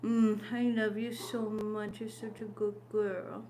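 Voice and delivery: soft, slow loving murmur; tender murmur. Real, not acted. Owner murmuring softly to her dog, tender.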